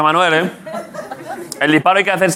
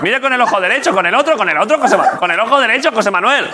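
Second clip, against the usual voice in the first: words broken by laughter; laughing while talking; 4 semitones higher than usual. Real, not acted. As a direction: giggle through the instructions. Friend laughing at odd aiming.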